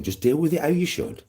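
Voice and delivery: lightly voiced little devil egging himself on; inner evil voice. His evil side goads him to teach a lesson, lightly voiced goading. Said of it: "little evil bastard inside me saying".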